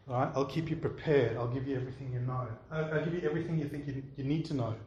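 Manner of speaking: softly voiced promises of fear; a hushed offer from fear. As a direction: lightly play fear, speaking quietly. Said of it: "the voice of fear says".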